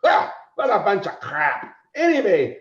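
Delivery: a lightly voiced grumpy Santa; mock-grumpy Santa leaving for the bar; grumbling Santa. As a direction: grumble it off, fed up. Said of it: "he goes".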